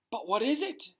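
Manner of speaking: a hushed, voiceless question; breathy whisper. A narrator's reading. The seer peering into the crystal ball, whispering. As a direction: whisper it as if the orb might hear. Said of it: "Professor Trelawney whispered".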